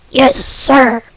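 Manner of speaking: loud, hammed-up English butler; terrifying butler voice. Alfred greets Dent with drinks, a loud hammed-up butler. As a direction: boom it out as a stiff old butler. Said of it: "the most terrifying thing to come out of my mouth".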